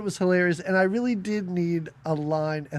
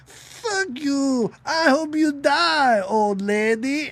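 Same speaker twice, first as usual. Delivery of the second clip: mock angry curse; 6 semitones higher, much slower than usual. Podcaster voices the angry heroine cursing the old lady. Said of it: "Phoebe Cates is like".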